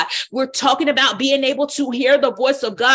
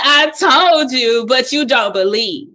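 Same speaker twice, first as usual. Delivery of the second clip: a sharp, louder snap, slowed down; snapped; 4 dB louder than usual. Shown as a demonstration. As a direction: bite the words off like a rebuke. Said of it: "Jesus snapped".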